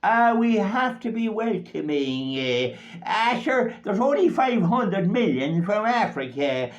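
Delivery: lightly voiced dismissive Dáil politician; mocking TD. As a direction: mimic a smug TD waving away worries. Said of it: "you'll see him or her above in Dáil Éireann saying".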